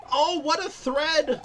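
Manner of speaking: high, slow and laughing; giddy disbelief. Real, not acted. Streamer laughs in disbelief after barely clearing the level. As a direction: squeal in relieved amazement. Reacting after surviving the section.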